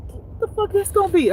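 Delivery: high, startled outburst. Retold or imitated. A waitress startled by a demanding customer, a high blurt. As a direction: blurt it out, suddenly alarmed. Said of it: "And I'm like".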